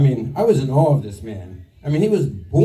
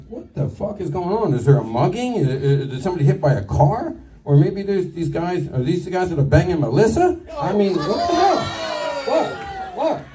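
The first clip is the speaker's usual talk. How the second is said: exaggerated baffled questioning, pitch lifting; acted bewilderment; 4 semitones higher than usual. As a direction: play up your confusion, question after question. Acts out his bewildered reaction at scene.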